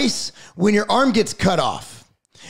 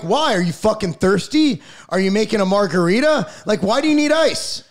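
incredulous retort. Retold or imitated. Retort to soccer coaches asking for ice, mock incredulous. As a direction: needle them with absurd questions.

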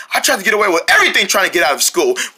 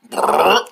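armadillo sound; 4 semitones lower than usual. Retold or imitated. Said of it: "The armadillo goes".

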